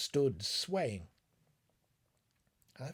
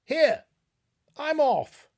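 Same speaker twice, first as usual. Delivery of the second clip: panicked; 13 dB louder, slower than usual. Acted. Terrified man bolting away.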